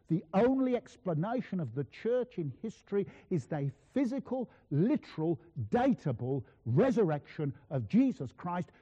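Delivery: measured, emphatic lecturer's declaration; lecturing theology professor. Retold or imitated. Small professor opening his New Testament lectures, lightly voiced emphatic declaration. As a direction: open the lecture with slow, weighty conviction. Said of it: "He began in exactly this way. He said".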